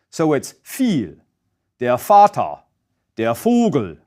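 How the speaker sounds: "viel", "Vater", "Vogel" with the V said as F; V said as an F sound; German V as F. Shown as a demonstration. Teacher demoing German V said as F. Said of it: "pronounced as a voiceless F".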